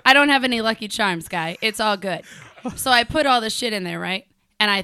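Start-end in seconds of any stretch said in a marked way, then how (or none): 0.0-2.2 mock Irish accent. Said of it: "with an accent".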